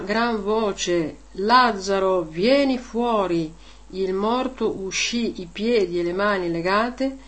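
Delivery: measured liturgical reading voice; solemn church reading; Gospel reading. Acted. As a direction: proclaim the scripture steadily to the congregation. Reads the Gospel aloud.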